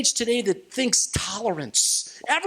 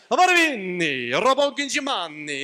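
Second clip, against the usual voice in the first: hammed-up Italian restaurant babble; mock Italian gibberish. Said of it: "some Italian flair".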